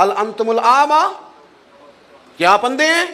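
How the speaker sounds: high, indignant mock rebuke; old man's rebuke. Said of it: "اس بزرگ نے بھی یہی جملے کے کہا".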